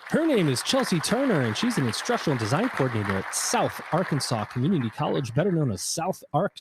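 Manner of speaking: hype introduction. Acted. Hyped guest introduction.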